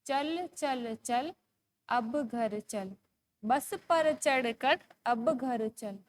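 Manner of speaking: slow, measured sing-song recital; poem recitation. Shown as a demonstration. Teacher reading a poem to young pupils, slow sing-song. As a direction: read each word out slowly for children to follow.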